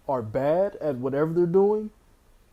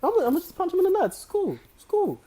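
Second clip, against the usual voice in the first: high, light and offhand, laughing; casual Giannis impression; 12 semitones higher, 3 dB louder, much faster than usual. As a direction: toss it off like nothing, laughing. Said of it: "he said it so casually".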